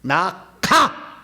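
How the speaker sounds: a stern exorcist ordering the demon out; firm command. Shown as a demonstration. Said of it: "이렇게 얘기하는 거죠".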